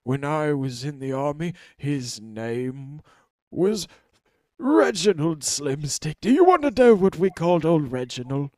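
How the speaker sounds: put-on old prisoner cackling high and loud over the nickname; shrieking with glee at the old joke; excited old man.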